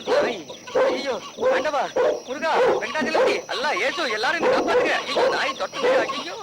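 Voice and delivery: frantic yelling after a dog chase; panicked yelling. Acted. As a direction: scream to every god as the dog chases.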